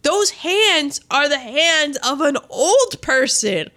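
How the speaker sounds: mock-horrified, swooping pitch; astonished. Recounting a rewind to check her hands, astonished. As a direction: gasp it out in comic disbelief.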